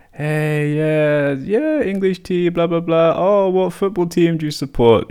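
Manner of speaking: high, chummy small talk; super friendly. Retold or imitated. Chatting with cops over tea, high and super friendly. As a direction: lay on the friendliness. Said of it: "super friendly".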